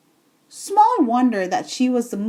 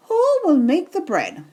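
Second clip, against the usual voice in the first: lilting hen call; sing-song call; 6 semitones higher than usual. Acted. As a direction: sing it out brightly. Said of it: "she sang out".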